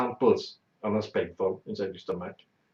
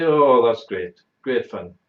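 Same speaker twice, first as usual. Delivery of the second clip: mocking the women; 7 dB louder, slower than usual.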